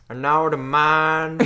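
very slow Texas drawl; Southern Texas accent. Retold or imitated. Co-host echoing the movie character, Southern Texas accent. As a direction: stretch it like a Southern boy. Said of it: "Southern Texas boy".

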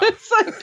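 high, hammed-up mock laugh; imitating Harry's laugh. Mimicking Harry's laugh for her cohost, mock cackle. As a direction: do a bad copy of his awkward laugh. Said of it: "my laugh is horrible when I try to do this".

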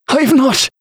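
high, strained, hasty denial; choked-out denial. A narrator's reading. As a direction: blurt it out in fear. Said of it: "the man choked out, too quickly".

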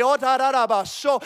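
rapid nonsense syllables in fervent prayer; praying in tongues. Retold or imitated. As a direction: act out a burst of glossolalia. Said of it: "started to pray in tongues".

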